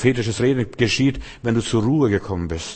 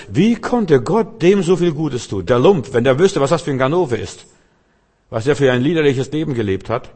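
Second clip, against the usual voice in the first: raised, stretched outrage, played for effect; mock indignation; 3 semitones higher than usual. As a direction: act out a scandalized pious grumbler. Voices indignant pious onlookers.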